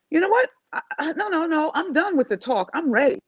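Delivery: excited quote. Retold or imitated. Tina telling her coach she's finally ready, excited. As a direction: announce it like she's done waiting. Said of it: "she came back to me and said".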